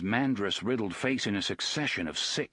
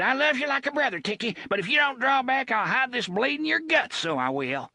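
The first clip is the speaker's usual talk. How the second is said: high, forceful threat; the thug threatens his boss with a knife; threatening thug; 13 semitones higher, 4 dB louder, faster than usual. Acted. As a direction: warn him hard.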